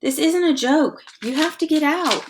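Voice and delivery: insistent. Acted. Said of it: "Chet insisted".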